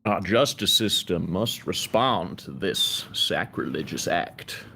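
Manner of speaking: slow, grave lawyer proclamation; solemn outrage for the jury; courtroom lawyer. Pretend. Guest joins mock courtroom speech.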